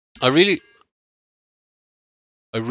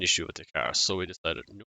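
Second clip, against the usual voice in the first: glitching audio; 5 dB quieter than usual. Real, not acted. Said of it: "Your mic is cutting in and out".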